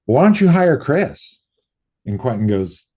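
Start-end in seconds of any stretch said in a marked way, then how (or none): 0.1-1.4 higher, louder eager suggestion; mock Greg voice, raised; imitating Greg. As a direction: pitch the idea brightly. Greg quoted pitching an idea.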